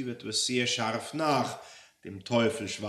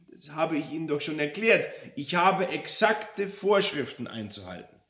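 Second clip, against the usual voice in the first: higher, louder harried official; exasperated devil; 8 semitones higher, 8 dB louder than usual. Acted. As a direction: insist on the rules, fed up.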